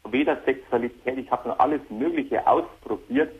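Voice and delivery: distant hands-free phone sound; on speakerphone. Real, not acted. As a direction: caller on a speakerphone. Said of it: "Kannst du nicht den Hörer ganz normal ans Ohr halten?".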